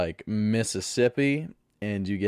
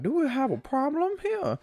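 mock tough guy. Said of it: "the other guy is like".

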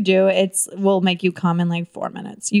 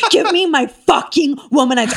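higher, punched-out comic demand; mock-furious demand; 4 semitones higher than usual. Comedian demanding her toy back in a tantrum, mock-furious. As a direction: demand it back in pretend rage.

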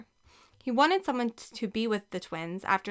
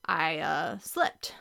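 low, hesitant start jumping up on the last word; halting guilty excuse; sheepish; 5 semitones lower, much slower than usual. A narrator's reading. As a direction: make a feeble, sheepish excuse.

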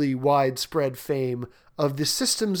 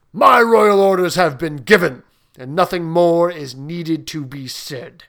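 loud, stern royal dismissal; booming warrior king; 6 dB louder than usual. Acted. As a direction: shut down all argument.

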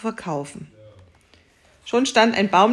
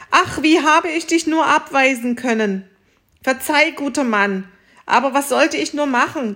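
höher, eifrig entschuldigend; aufgeregt erleichtert; 5 semitones higher, 3 dB louder than usual. Acted. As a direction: hastig um Verzeihung bitten. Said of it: "schrie der Bauer voller Freude". (aufgeregte, höhere Bitte um Verzeihung)

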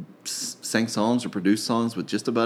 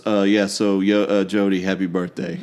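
flat, disinterested birthday wish; monotone voice. Retold or imitated. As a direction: toss it off without caring. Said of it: "it's so dispassionate".

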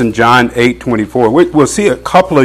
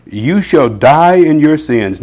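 stern warning; 6 semitones higher, 5 dB louder, slower than usual. Acted. Preacher voicing Jesus's warning.

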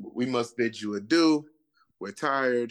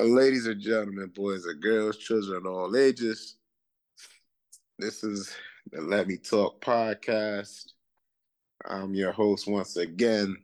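ringmaster. Acted. Announces podcast like a ringmaster.

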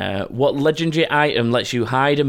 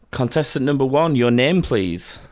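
flirty teasing dating host. Pretend. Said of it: "I've gotta do this properly".

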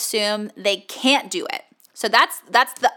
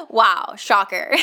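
sarcastic; slower than usual. Acted. Sarcastic remark on obvious advice.

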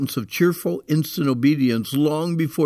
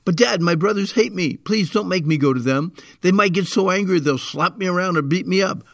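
put-on higher, pleading whiny child; whiny kid excuse; 5 semitones higher than usual. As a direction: whine like a kid dodging a chore. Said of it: "do you have a favorite excuse".

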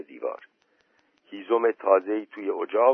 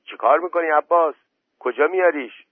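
higher, louder startled questioning; astonished shout; 7 semitones higher, 5 dB louder than usual. A narrator's reading. Aunt calling over the wall to Abbas, astonished shout. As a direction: call out in mild alarm and surprise. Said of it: "با تعجب نگاه کرد و داد زد".

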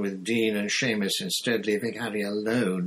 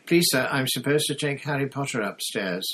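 higher-pitched, polite pupil's voice; eager schoolboy; 5 semitones higher, 4 dB louder than usual. A narrator's reading. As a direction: pipe up eagerly to a stern teacher. Eager pupil addresses stern teacher.

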